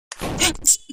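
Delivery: sharp voiceless gasp; quick real gasp at danger; startled gasp. Real, not acted. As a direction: suck in air in alarm. Startled by spikes in game.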